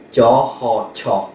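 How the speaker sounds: TIA, HA, fused into aspirated TIA; teacher demonstrating TIA with a puff of H; sound-blending demo. Shown as a demonstration. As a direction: join TIA and HA into one syllable. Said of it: "Je fais une combinaison de deux sons".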